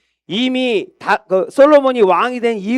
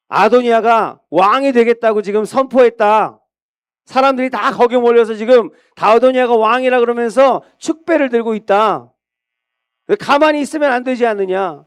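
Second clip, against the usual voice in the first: higher, pressing and alarmed; urgent warning; 4 semitones higher than usual. Acted. Prophet warns Bathsheba the rival is crowned, urgent. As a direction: press the danger on her. Nathan urges Bathsheba to act.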